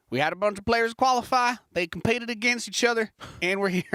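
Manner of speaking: put-on caster hamming a European accent. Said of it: "save my European accent for this portion".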